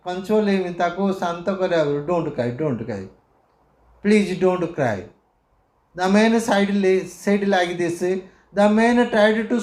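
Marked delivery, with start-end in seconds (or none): 2.1-5.0 soothing. Retold or imitated. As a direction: gently hush the boy. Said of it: "The man tried to soothe him".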